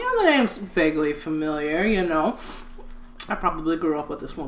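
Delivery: low, quiet, half-interested answer; retold vague reply. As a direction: imitate humouring your mother, softly. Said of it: "I'm like".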